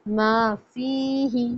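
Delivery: मा फीही slow, kept as two words; don't run मा into फीही; teacher correcting the join. Shown as a demonstration. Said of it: "मा फीही यूँ नहीं होगा".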